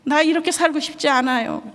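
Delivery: lightly voiced crying boy; son's plea. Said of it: "펑펑 우는 거예요".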